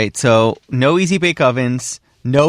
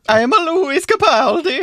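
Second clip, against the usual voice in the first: much higher, squeaky mock Scottish voice; mock of a singer. Cohost parodies the bad impression, a high, squeaky mock accent. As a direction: send up the failed impression. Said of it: "that accent you just tried to do".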